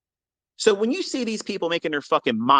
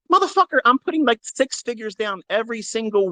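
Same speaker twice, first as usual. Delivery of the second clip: exasperated outburst; 6 semitones higher than usual. Real, not acted. Angry rant about critics.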